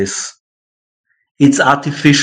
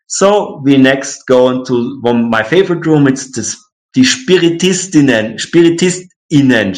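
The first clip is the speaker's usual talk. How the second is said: mimicking tour guide. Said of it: "she makes a pause, you know, while saying the word".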